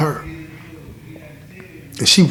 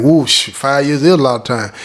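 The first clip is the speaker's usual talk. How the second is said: mock listener. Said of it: "a lot of people hear me say that out there and, and think".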